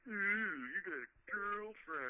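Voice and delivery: lightly mocking child's singsong, drawn out; slow, playful imitation of a teasing kid; teasing little kid. Caller imitates a kid teasing about a girlfriend, mock singsong. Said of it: "like a little kid that's like".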